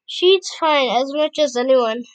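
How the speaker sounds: loud defense. Acted. Defending Sunny loudly.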